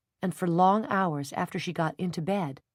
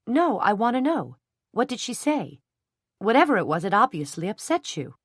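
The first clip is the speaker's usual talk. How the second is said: angry demand; 5 semitones higher, 5 dB louder than usual. A narrator's reading. Jenny confronting the Hendrons.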